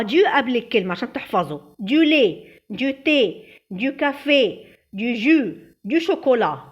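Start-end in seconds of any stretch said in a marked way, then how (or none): 1.8-3.4 quick list recitation; quick run-through. Shown as a demonstration. Teacher repeating the word list quickly for memorizing. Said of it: "نقولهم كده على السريع مع بعض". 3.7-4.6 دو كافيه rattled off quickly with a falling end; quick repeat. Shown as a demonstration. Teacher quickly drilling the word with pupils. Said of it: "نقولهم كده على السريع مع بعض".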